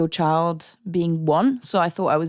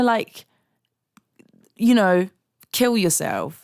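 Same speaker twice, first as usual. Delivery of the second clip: mock service voice; 6 semitones higher than usual. Mimicking the NHS services.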